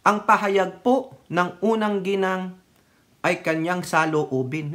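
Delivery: slow, measured official spokesperson read; formal statement. Shown as a demonstration. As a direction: read it like a careful press statement. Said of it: "Pwede mo namang sabihin ganito eh". (mabagal at pormal na pahayag)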